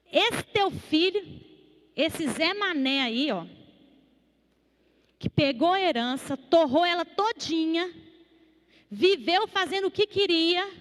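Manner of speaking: mock indignant complaint; resentful older brother. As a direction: scorn the wasteful brother to his father. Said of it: "ele olhou pro pai e falou assim".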